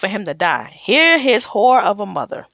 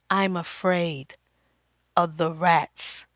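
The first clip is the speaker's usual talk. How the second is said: timid fear; 6 semitones lower, 7 dB quieter, slower than usual. Retold or imitated. Timid queen voices her fear.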